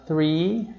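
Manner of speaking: three with the th made by the tongue between the teeth. Shown as a demonstration. Teacher showing students the th in three, tongue between teeth. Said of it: "a gente tem a língua no meio dos dentes".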